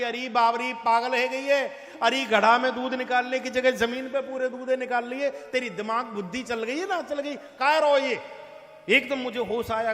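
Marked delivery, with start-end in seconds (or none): 0.0-8.2 mother-in-law yelling, a bit louder; scolding shout. Retold or imitated. Mother-in-law yelling at the daydreaming girl, loud scolding. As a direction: scold her loudly like an angry mother-in-law. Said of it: "एकदम चिल्ला के बोली".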